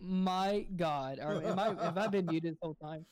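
laughing through a startled question; laughing disbelief. Retold or imitated. Realising to cohost he was muted, laughing. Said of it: "I'm like".

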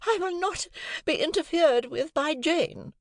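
high, slow, imperious declaration; majestic wife. A narrator's reading. Wife declaring over the little offender, high and majestic. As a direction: speak down from a throne. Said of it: "with a majestic glance".

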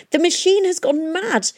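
high, loud panicked wail. A narrator's reading. Magnus Kroom wailing to Valentine about the machine. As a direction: wail in terror. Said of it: "he wailed".

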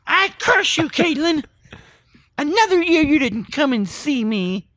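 high mock witch curse; laying a curse. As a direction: cackle out a playful curse. Podcaster plays a cursing witch.

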